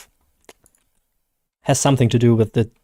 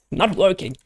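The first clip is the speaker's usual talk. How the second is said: nasal American accent; 5 semitones higher than usual. Shown as a demonstration. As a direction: still whiny and nasal, higher. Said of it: "That's not working".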